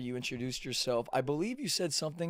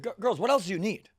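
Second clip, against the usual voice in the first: mock exasperated Zach; 5 semitones higher than usual. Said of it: "And Zach was like".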